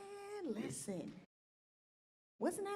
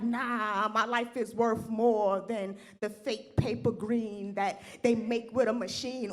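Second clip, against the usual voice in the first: mock defiant declaration; 6 dB louder, slower than usual. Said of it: "and be like".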